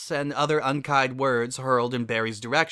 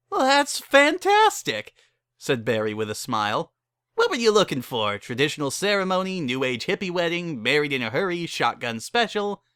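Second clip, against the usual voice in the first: brassy saleswoman; 4 semitones higher than usual. Acted. Barry pitches her wedding packages to the couple, brassy and higher. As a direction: rattle off the package menu like a hustler.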